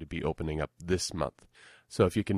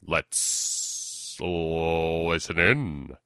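put-on old-time radio sponsor voice; radio announcer read. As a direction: set up the episode like a serial. Sponsor read and scene lead-in.

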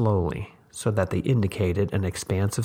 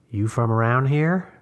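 put-on old woman voice; 4 semitones higher, 4 dB louder than usual. A narrator's reading. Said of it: "the old woman said".

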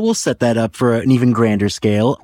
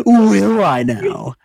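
slow, amused "will I now"; laughing mock-coy; 7 semitones higher, much slower than usual. Real, not acted. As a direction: tease back while still laughing.

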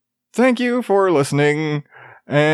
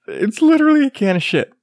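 laughing; 10 semitones higher, faster than usual. Real, not acted. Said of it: "without laughing".

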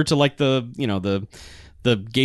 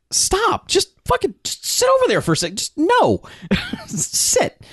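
very high-pitched frazzled mother impression; mock exasperated scolding. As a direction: squeak out orders to an unruly kid. Mother ordering kid to stop.

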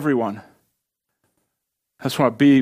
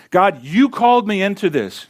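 higher-pitched, emphatic complaint to God; aggrieved prophet protesting his calling; accusing protest; 6 semitones higher than usual. Acted. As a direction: throw the blame back with weight on YOU. Voicing Jeremiah's protest to God.

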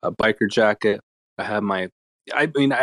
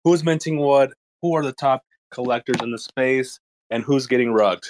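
radio host intro. Acted. Mock radio show intro.

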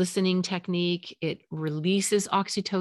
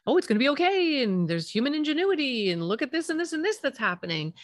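bright hurried "it's okay" parent; anxious parent cheerfully smoothing things over; eager reassurance; 7 semitones higher than usual. Retold or imitated. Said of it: "everything in you is gonna tell you to".

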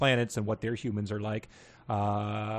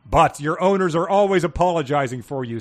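Sirius voice; 5 semitones higher, 7 dB louder than usual. Acted. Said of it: "said Sirius".

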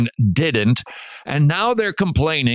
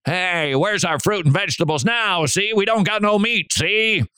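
higher tough-guy gangster whine, see; Edward G. Robinson gangster; 7 semitones higher than usual. Retold or imitated. Preacher imitating Edward G. Robinson's Israelites, mock gangster whine. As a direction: complain like an old movie gangster. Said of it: "that's the way they talked".

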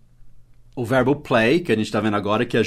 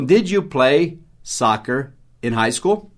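slow model question; slower than usual. Shown as a demonstration. Teacher slowly models a full past question. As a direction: lay out the whole question slowly. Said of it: "Então".

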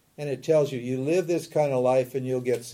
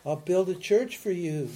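lightly voiced plea, rising higher for the offer; mock bargaining prayer; 3 semitones higher than usual. Teacher imitating someone making business with God, mock pleading. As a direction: strike a deal in a mildly hammed-up prayer. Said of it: "Business, you know, making business with God".

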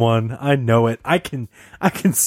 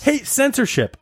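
lady voice; 10 semitones higher than usual. Acted. Falsetto lady voice continuing.

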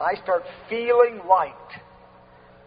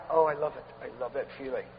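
low, hushed savouring; tender delight; 10 semitones lower, 9 dB quieter than usual. Real, not acted. Preacher savouring the feeling of being liked, tender and hushed. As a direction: sink softly into the feeling.

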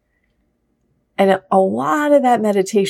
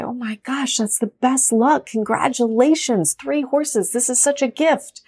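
higher, gushing congratulations; mock excited villagers; 5 semitones higher than usual. Villagers gushing over the farmer's luck, lightly excited. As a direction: play up the villagers' delight.

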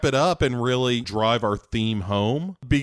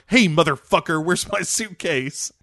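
louder, higher hammed-up menace; mock tough threat; 6 semitones higher, 5 dB louder than usual. Nomi threatening Jeff in the truck, loudly hammed up. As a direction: bark it like a movie tough. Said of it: "And it's like".

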